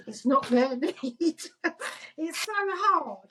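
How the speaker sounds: slow, laughing through the words; laughing at her own neediness. Real, not acted. Laugh while speaking.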